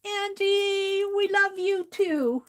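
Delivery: high, slow, choked-up calling of her name; fighting back real tears; moved to tears, voice lifting and wavering; tearful. Real, not acted. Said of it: "Here comes the tears again".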